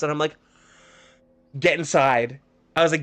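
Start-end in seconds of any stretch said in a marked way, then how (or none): 1.6-2.4 louder, mock-stern command; retold stern order. Teacher sends cheeky kid inside, retold stern command. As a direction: act out a fed-up order.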